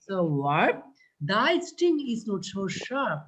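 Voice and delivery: slow verse reading; poem recital. Shown as a demonstration. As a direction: read the line slowly, like a poem.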